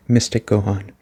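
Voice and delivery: ordinary talk, nothing marked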